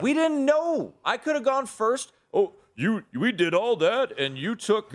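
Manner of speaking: outraged at the accusation; indignant. Real, not acted. Indignant protest at cohost.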